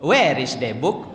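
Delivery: slow mock Rimbo Panjang accent in English; Rimbo Panjang-style English. Shown as a demonstration. Teacher imitates English Rimbo Panjang style, slow mock accent. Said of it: "Gaya Rimbo Panjang".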